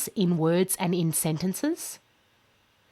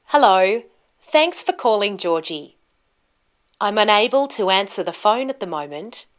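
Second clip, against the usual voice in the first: friendly voicemail greeting with lively tune; rising and falling tune; 3 dB louder than usual. Shown as a demonstration. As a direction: clear ups and downs of pitch. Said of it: "Can you hear that the tone or pitch of my voice goes up and down".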